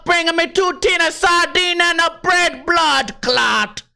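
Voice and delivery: high, drawn-out hammed-up Jamaican accent. Host shows off his Jamaican accent, hammed-up Jamaican. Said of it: "that's my Jamaican accent".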